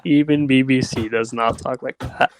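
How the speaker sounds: said through a laugh. Real, not acted. Co-host repeating the quip, laughing. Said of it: "repeats it".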